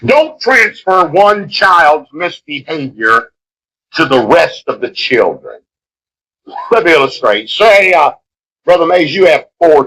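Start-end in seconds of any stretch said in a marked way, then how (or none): 0.1-5.6 slow solemn rule. Shown as a demonstration. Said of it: "Number two".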